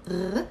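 short "r" gargled in the throat; one isolated "r" like a French R; throaty gh. Shown as a demonstration. Teacher isolating the sound, throaty gargled "r". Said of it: "That sound".

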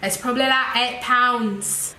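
put-on second stab at a British accent; hammed-up British accent, a bit brighter. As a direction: have another go at sounding British. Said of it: "And if you're British".

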